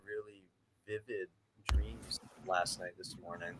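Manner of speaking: muffled, voice dropping out; speaking muffled, as if mouth covered. Real, not acted. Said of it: "you got muffled when you started talking".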